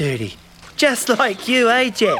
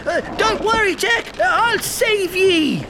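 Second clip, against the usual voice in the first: pirate captain; 4 semitones higher than usual. Pretend. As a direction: pretend pirate, high and hammy. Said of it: "Captain Charlie".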